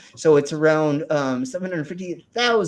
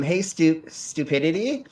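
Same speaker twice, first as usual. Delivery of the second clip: fighting game announcer; 2 semitones higher, slower than usual. Acted. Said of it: "putting on my announcer voice".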